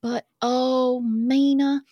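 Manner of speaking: put-on reading a love letter in a light Southern accent. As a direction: read it as a swooning Southern girl. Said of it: "I'm not gonna attempt that accent".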